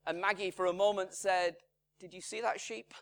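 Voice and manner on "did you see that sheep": a calmly asked question, imitating his wife; mildly calm wife's voice, not alarmed. Preacher quoting his wife's calm question about a sheep, lightly calm. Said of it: "She said it very calmly".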